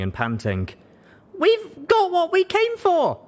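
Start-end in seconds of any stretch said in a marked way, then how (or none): 1.4-3.2 high, slow triumphant cry; high, drawn-out shout of victory; breathless triumphant shout. Acted. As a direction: call out the win while still panting. Panting after bursting through door.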